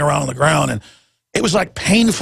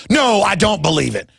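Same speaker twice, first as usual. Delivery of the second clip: sarcastic; 2 semitones higher than usual. Retold or imitated. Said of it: "You're, you're being sarcastic".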